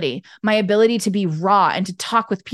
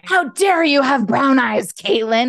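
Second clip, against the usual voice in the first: slow, playful mock outrage; mock anger; 3 semitones higher, 3 dB louder, slower than usual. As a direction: pretend to scold, drawing it out in indignation. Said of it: "being mad at Caitlin".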